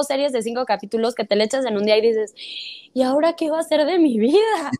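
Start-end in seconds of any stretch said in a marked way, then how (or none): 2.9-4.7 dramatic wail, higher; mock despair. Series fan lamenting a finished binge, mock despair. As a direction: lament it with playful exaggeration. Acted viewer after a binge.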